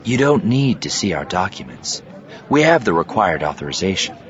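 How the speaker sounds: composed, measured persuasion; calm. Acted. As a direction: state it evenly and calmly. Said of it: "addressed them in a calm voice".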